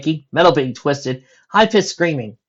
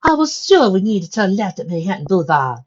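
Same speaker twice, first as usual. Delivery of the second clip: confused; 7 semitones higher, 4 dB louder than usual. Acted. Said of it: "Rarity said, confusion".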